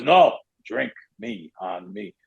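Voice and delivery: slow, imitated Eastern European accent; deliberate mock-Russian refusal, broken English. Big stranger refusing to let the speaker pay, slow imitated European accent. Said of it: "not making fun of any accent".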